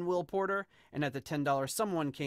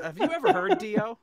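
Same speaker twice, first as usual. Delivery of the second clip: sudden high loud disbelief; exasperated shout at his wife; incredulous outburst; 10 dB louder than usual. Retold or imitated. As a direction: blurt it out in disbelief. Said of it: "awful singer impression".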